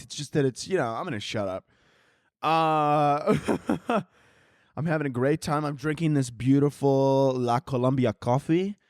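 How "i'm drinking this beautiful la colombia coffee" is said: badly faked Spanish accent on the brand name; mock Spanish accent. Host trying a Spanish accent on his coffee. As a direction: attempt a Spanish accent and miss. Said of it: "I tried to have a Spanish accent".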